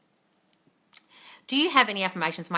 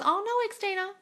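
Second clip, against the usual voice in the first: sympathetic oh no; 14 semitones higher than usual. Real, not acted. Reacting to sick viewer's comment.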